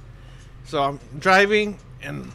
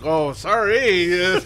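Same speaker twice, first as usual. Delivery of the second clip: drawn-out "sorry", played for laughs; mock sheepish apology; much slower than usual. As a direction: stretch out a hapless apology. Sheepish reply to angry officer, retold.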